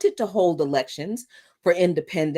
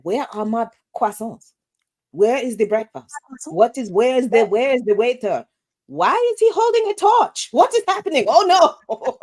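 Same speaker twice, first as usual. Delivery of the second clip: rising into high mock panic; clueless French tourist; 4 semitones higher than usual. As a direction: start puzzled, end in a high squeal. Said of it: "and they're like".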